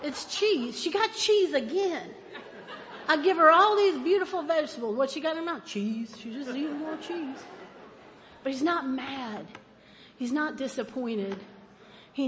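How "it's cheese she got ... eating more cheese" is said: God watching, amused. Retold or imitated. God watching her chase the dog, amused higher voice. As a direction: wonder aloud at her, amused. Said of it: "he just watches me and goes".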